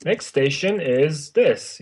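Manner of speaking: slow, formal transit announcement; station announcer. Shown as a demonstration. Imitating bus speakers announcing the next stop, formal announcer. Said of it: "speakers in different s-, buses".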